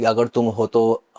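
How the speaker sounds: slow, drawn-out call to a spirit; mock séance invocation; slow summoning call. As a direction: coax the spirit out slowly, like a séance. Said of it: "आवाज़ ले गए".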